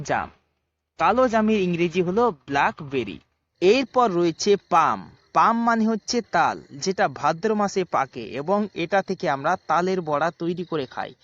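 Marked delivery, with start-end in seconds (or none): 4.7-6.6 পাম said pam, the L silent; পাম, no L sound at all. Shown as a demonstration. Teacher to kids, পাম with silent L. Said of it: "এল এর কোনো উচ্চারণ হবে না".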